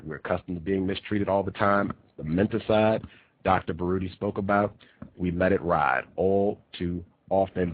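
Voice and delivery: ordinary talk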